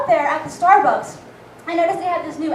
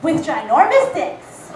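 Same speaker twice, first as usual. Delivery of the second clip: blurted punchline; 5 dB louder, slower than usual. Retold or imitated. Punchline of flirt.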